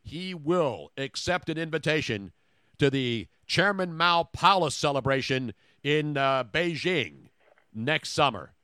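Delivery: slow, deliberate newsflash read; measured mock-newscaster delivery, stretched out; mock breaking news. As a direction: announce it like a spoof news bulletin. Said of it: "I have breaking news from LeBron".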